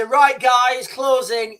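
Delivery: loud, clipped call to close in; calling troops in. Retold or imitated. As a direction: call the platoon in like a sergeant. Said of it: "I would get people in and we say".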